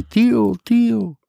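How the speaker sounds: high calling across a room. Retold or imitated. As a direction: call out to him from afar.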